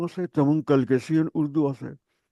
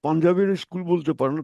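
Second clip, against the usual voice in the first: usual speaking voice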